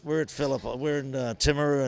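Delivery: a touch of remembered excitement; excited retelling. Retold or imitated. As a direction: play it like you can't believe your luck. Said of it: "to be able to go".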